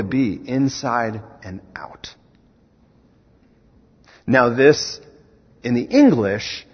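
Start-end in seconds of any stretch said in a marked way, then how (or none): 0.0-2.1 hushed, breathy question; urgent whispered question. Real, not acted. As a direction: drop to a whisper for weight. Whispered climax after rally.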